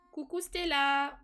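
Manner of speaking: slow, sing-song hello to a puppy; slow affectionate coo; cooing at the dog. Real, not acted. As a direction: coo the name slowly, like to a pet. Greeting the pet dog.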